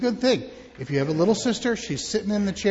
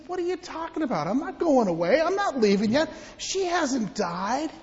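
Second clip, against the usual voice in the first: higher, calm Jesus; lightly voiced Jesus; 6 semitones higher than usual. Jesus telling the mourners she only sleeps, light voice. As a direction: reassure them gently.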